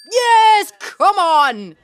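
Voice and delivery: high, loud cheer; delighted shout of yes. Real, not acted. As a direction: whoop at the screen. Cheering at the clip.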